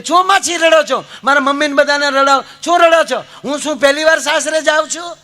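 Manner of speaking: high, loud scolding of the crying family; scolding bride. Retold or imitated. Bride scolding her crying family, loud and high. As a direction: snap at the weeping relatives in a high voice. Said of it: "દીકરી ખીજાણી કે".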